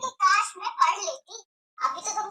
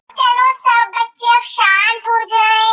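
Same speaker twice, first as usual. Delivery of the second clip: sing-song teacher; 4 semitones higher, 9 dB louder than usual. Acted. Teacher hands out sheets.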